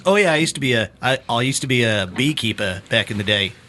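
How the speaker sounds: imitated New Zealand accent; casual New Zealand imitation. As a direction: play a New Zealander explaining offhand. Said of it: "New Zealand accent".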